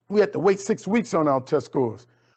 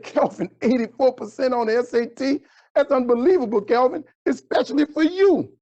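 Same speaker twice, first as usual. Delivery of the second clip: a hint of a surprised teacher, pitched higher; lightly voiced teacher; 5 semitones higher than usual. Teacher Miss V reacting to Kelvin's score, lightly voiced higher.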